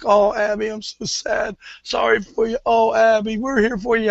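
mock the fancy girls' cooing pity; prissy college girls. Teammates fussing over crying Abby, mock sweet sympathy. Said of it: "pretty highfalutin".

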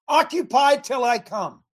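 slow, loud preaching call; preached shout. Acted. Preacher rallying pastors with the verse, shouted slowly. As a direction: proclaim it like a pulpit cry.

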